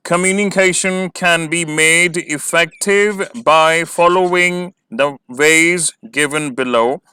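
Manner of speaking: very slow, measured read-out of the question; slow dictation pace. Shown as a demonstration. Dictating answer.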